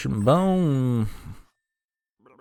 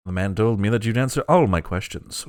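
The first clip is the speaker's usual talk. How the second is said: wrong voice; 4 semitones lower than usual. Acted. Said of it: "Oops, wrong voice".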